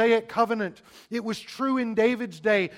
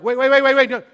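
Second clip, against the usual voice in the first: objecting Pharisees; 10 dB louder than usual. Retold or imitated. Preacher voicing the Pharisees balking at Jesus, loud mock protest. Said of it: "They're like".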